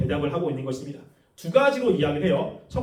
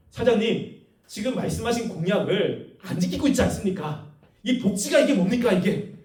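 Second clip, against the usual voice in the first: protesting employee. Acted. Employee confronts the company president over broken promises, protesting. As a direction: press the complaint like an aggrieved worker. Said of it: "직원이 사장님이 왔을 때 항변하는 거예요".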